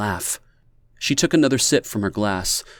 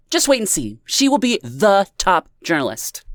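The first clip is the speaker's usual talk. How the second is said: high, bright tipsy exclamation; exclaiming; 10 semitones higher, 4 dB louder than usual. A narrator's reading. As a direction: cheer her friend on. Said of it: "Amanda exclaimed".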